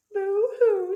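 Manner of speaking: high, loud mock boo-hoo; mouse crying. A narrator's reading. Mouse upset by the noise, high mock cry. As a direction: play-act a little wail. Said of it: "says the mouse".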